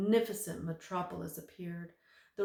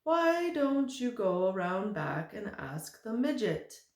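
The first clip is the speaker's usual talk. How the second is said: lightly voiced giant; 3 semitones higher, 4 dB louder, slower than usual. The giant answers at the door.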